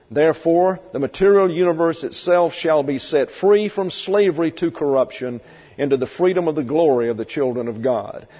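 measured Bible reading voice; scripture reading. Acted. Preacher reading Romans aloud to the class. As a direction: read the verse out with weight.

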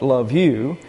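love you left unstressed after a weighted I; stress on subject. Shown as a demonstration. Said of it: "when the emphasis is on the subject".

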